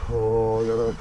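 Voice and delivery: urgent, scrambled shouts while flying; panicking gamer. Real, not acted. Racing drone, yelling at it.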